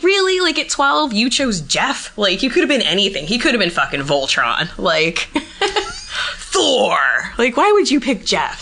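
mock disbelief. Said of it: "I was like".

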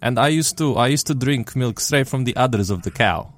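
hammed-up Russian accent. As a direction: tell it like a Russian farmer. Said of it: "we have to speak with Russian accents".

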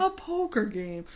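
put-on lilt drifting into Irish; slightly Irish-sounding round vowels; accent turning Irish. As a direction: echo it softly in a wobbly Irish accent. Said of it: "that's slowly turning into Irish".

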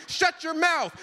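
high, loud, furious shout; angry yell. Retold or imitated. Dad shouting at daughter while fighting the dog, furious. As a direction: bark it at the back-seat driver.

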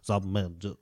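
low, soft, failed Michael Caine voice; a hammed-up attempt at Michael Caine; Michael Caine impression. Trying Michael Caine's line for a friend, low and soft. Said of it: "I can't do my, my, Michael Caine".

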